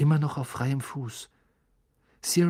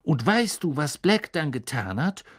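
louder, suspense-building question; dramatic; 3 dB louder than usual. Acted. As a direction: hold the pause before the reveal. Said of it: "fuhr Stan dramatisch fort".

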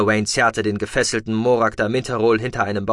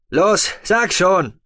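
urging call; 9 semitones higher, 5 dB louder, much slower than usual. A narrator's reading. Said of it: "rief Tech".

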